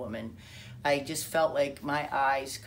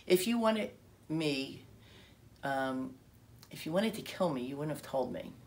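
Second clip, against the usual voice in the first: calm and gentle. Retold or imitated. Minister answers her threat, calm and gentle. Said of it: "so calmly and so gently".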